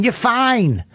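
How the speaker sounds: mocking a friend's impatient fatherly brush-off; dismissive brush-off. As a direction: toss off the comfort like it's a chore. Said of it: "I just picture you going".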